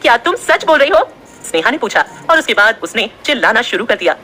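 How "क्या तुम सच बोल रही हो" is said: higher, eager disbelief; excited shout. A narrator's reading. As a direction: cry it out in joy. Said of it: "Sneha चिल्लाते हुए बोली". (खुशी से चिल्लाकर)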